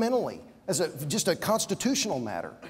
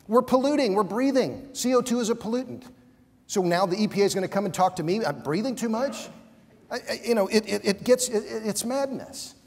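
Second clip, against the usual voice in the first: worked up; 4 semitones higher than usual. Real, not acted. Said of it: "So I'm getting all worked up here".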